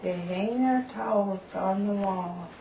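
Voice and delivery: slow storybook reading; reading to a toddler. Acted. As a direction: read slowly for a small child. Reading picture book to toddler.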